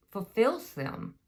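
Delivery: ordinary talk, nothing marked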